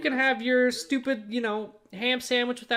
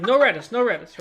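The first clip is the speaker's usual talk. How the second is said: loud put-on Asian accent; mock Asian accent; 8 dB louder than usual. Interpreting for girlfriend's Asian relative, mock accent. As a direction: call it out in a fake Asian accent. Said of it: "a professional Asian interpreter for English".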